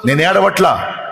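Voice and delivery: high, loud, driving sermon cadence; impassioned preaching. Real, not acted. Preacher voicing Mary to the congregation, in impassioned full-force preaching. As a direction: pound every line home like a revival preacher.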